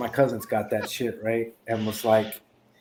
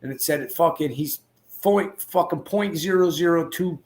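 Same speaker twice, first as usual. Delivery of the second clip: excited ranting; 6 semitones higher than usual. Retold or imitated. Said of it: "He's like".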